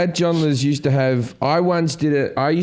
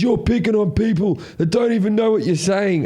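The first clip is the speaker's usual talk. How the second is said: raised-pitch mock indignation; imitating an aggrieved objector; indignant heckler; 6 semitones higher than usual. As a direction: scold the comedian as an offended heckler. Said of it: "He goes".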